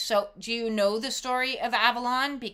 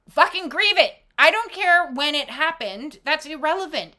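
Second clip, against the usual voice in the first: emphatic; 4 semitones higher, 6 dB louder than usual. Real, not acted. Emphatic outburst after skit.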